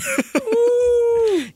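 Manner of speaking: long, very high laughing squeal; high whoop. Real, not acted. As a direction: let out a long delighted whoop. Whoops after singing the lyric.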